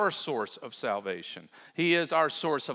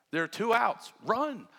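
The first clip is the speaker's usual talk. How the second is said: coach's shout; 6 semitones higher than usual. Shown as a demonstration. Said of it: "I do this regularly at third base".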